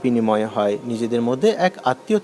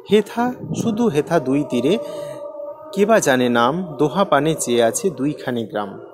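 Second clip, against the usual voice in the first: measured poem reading with pauses; poem recitation. Acted. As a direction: recite the verse deliberately, phrase by phrase. Recites the poem's lines. (কবিতা আবৃত্তির ভঙ্গি)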